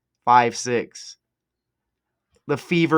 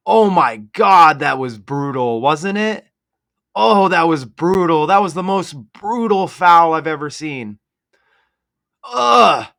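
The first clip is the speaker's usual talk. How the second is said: hammed-up mock outrage, louder; sarcastic; 5 dB louder than usual. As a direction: fake devastation with a mock groan, laying it on thick. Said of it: "Obviously, I'm being sarcastic".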